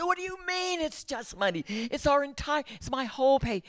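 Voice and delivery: replaying her hysterical panic at her husband. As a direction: squeal it like you can't believe him. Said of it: "And I was just hysterical".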